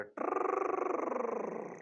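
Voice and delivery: long high tongue trill; rolled trill. Shown as a demonstration. Teacher shows students one full turn, long high trill. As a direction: roll a long high whirring "trrr". Imitates noise of going round circle.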